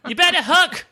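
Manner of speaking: put-on loud drag queen Australian accent. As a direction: belt it in a campy Australian accent. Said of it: "In my paltry Australian accent".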